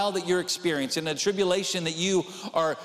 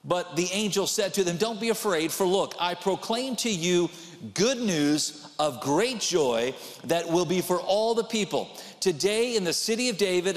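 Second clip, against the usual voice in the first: scripture reading. Acted. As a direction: read the verse with reverence. Reads scripture aloud.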